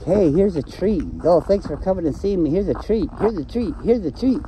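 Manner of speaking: high, sugary coaxing voice; mock a doting dog owner; soft dog owner. Mocking owners who coax dogs with treats, high and sweet. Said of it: "those people where it's like".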